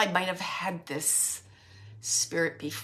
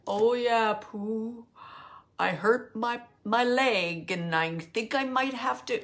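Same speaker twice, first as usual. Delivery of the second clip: lightly voiced slow complainer; a mild grumbling character imitation; Eeyore. Medium imitating a cartoon donkey's complaint, lightly slow and grumbling. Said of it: "you remember how E".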